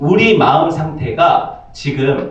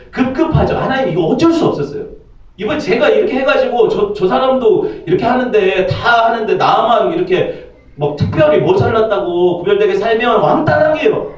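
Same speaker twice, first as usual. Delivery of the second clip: higher, hurried pleading excuse; frantic excuse; 5 semitones higher than usual. Acted. Sinner making excuses to God, high hurried whine.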